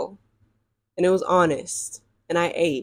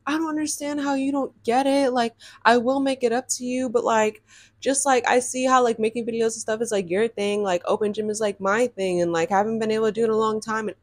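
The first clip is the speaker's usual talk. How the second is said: softer, higher put-on boyfriend voice; imitated whiny excuse; 3 semitones higher, 3 dB quieter than usual. Girl mimics the boy defending open gym, soft higher voice. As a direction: mimic him pleading his case quietly.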